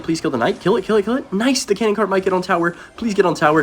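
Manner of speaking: excited pleading. Real, not acted. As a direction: cheer the cards on like a fan. Cheering units on mid-game.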